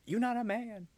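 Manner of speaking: high mocking "You not a man"; mocking how she questions his manhood; mock coworker. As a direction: parody her dismissive jab.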